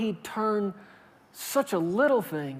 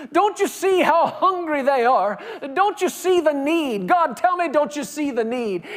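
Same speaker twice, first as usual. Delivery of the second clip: desperate begging prayer; 5 semitones higher than usual. Retold or imitated. Preacher acting out a desperate plea to God. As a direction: plead with God like a starving man.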